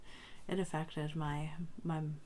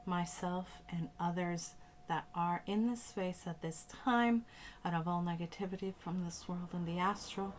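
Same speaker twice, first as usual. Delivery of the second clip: spoken prayer, unhurried and deliberate; cleansing invocation. Acted. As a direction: recite a blessing over the space in short, paused phrases.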